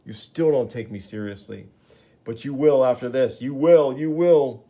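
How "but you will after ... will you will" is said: louder, rising vow of revenge; escalating angry promise; menacing threat. Acted. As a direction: build the threat with each repeat. Gibbon threatens Spider-Man.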